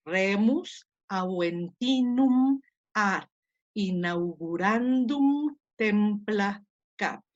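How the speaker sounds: slow, measured reading of a Latin passage; slow Latin recitation. Shown as a demonstration. Teacher reading a Latin text to her class, slow and measured. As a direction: read the Latin aloud slowly and deliberately.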